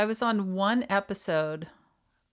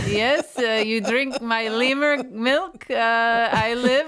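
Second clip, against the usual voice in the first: lemur call. Pretend. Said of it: "is that your lemur impression?".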